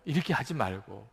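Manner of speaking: ordinary talk, nothing marked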